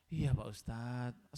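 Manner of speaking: slow, low, laboured reply; acted panting weakness; imitated breathlessness. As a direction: answer like a sick man short of breath. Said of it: "Sambil nafasnya terengah-engah".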